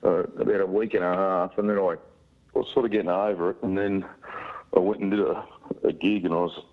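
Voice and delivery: sick, croaky voice; hoarse voice. Real, not acted. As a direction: voice worn out from flu. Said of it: "a funny sounding voice at the moment".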